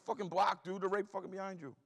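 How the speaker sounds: high, loud retort to a teammate; exasperated yell. Retold or imitated. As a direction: shout back in urgent exasperation. Yelling back at teammate mid-run.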